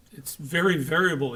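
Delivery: a light imitation of a thick Polish accent. Lecturer imitating a Polish coworker, light Polish accent. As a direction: mimic the Polish brewery fellow's thick Polish accent, understated. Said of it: "he said, in a really thick accent".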